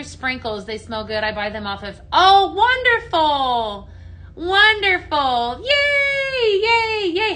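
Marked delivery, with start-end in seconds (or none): 2.1-7.3 high, loud, stretched-out squeal of delight; delighted cheering. Real, not acted. Live seller celebrates a viewer's comment, delighted cheering. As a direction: cheer in a slow, singsong high pitch.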